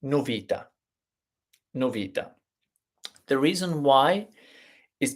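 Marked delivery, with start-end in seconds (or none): 0.0-0.7 "novità" mispronounced as no-VI-ta; long stressed VI in "novità", weak final ta; stress on second-last syllable. Shown as a demonstration. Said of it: "The way I would pronounce it". 1.7-2.3 "novità" as no-VI-ta, falling after VI; stress on second-last syllable. Shown as a demonstration. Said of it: "The way I would pronounce it".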